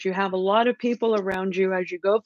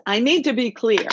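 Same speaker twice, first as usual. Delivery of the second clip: lightly mimicked friend, pitched higher; imitating Gemini friend; 4 semitones higher than usual. Reader mimics how a Gemini friend talks, lightly imitated. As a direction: mimic your friend's insistent catchphrase, voice lifted. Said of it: "she talked like this".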